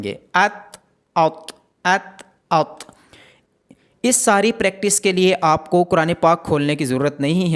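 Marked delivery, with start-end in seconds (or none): 0.3-2.9 ات thin then ات thick, drawn out slowly; slow letter drill. Shown as a demonstration. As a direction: slowly contrast light ات with heavy ات. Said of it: "تا کو ہم باریک پڑھیں گے اور تا کو ہم موٹا".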